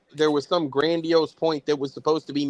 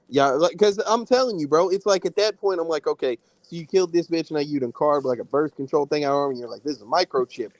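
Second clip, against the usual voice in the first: muffled, like through a wall; mic sounds muffled and distant. Real, not acted. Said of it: "You, you sound muffled".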